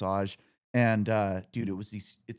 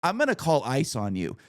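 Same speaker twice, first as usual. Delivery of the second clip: furious insults; 4 semitones higher, 5 dB louder than usual. Retold or imitated. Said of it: "I'm like".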